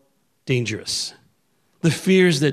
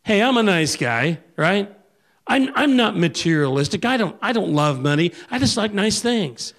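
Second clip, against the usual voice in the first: mock-innocent excuse, pitched higher; self-justifying voice; 6 semitones higher than usual. Preacher mocking the congregation's excuses, lightly higher and self-satisfied. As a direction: play the smug nice guy brushing it off. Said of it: "We say things like".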